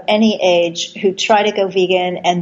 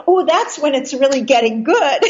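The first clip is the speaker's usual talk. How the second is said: higher-pitched, lightly imitated British accent with emphasis; emphatic British accent; 6 semitones higher than usual. Host retelling an activist's encouragement, emphatic imitated British accent. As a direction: relish it in a mock British accent. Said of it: "with, with emphasis like".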